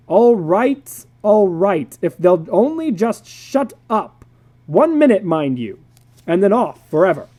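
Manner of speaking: grudging. Acted. Father gives in gruffly.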